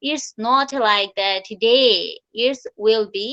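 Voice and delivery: very slow, deliberate English; slow teaching delivery. Shown as a demonstration. Teacher slowing right down for her class. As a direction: spell it out slowly for the class. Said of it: "ডেটা আমরা কিভাবে উচ্চারণ করি".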